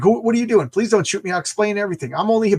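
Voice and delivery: acted nervous protest; panicked pleading. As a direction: plead for your life, hammed-up. Victim pleads not to be shot.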